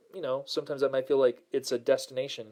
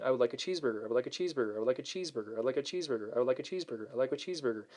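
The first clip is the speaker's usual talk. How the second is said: dramatic repetition; 5 dB quieter, much faster than usual. Retold or imitated. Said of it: "I know I'm being dramatic".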